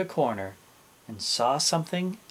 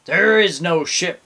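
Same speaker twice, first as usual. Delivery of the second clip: loud, raised, firm denial; exasperated captain; 5 semitones higher, 7 dB louder than usual. A narrator's reading. Captain answering both pirates, loud exasperation. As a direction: shut the idea down forcefully. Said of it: "said the captain".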